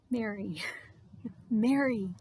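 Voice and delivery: gently spoken name with space around it; tender calling. Acted. Jesus tenderly calls Mary by name.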